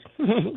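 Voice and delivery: giggle. Retold or imitated. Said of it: "she giggles".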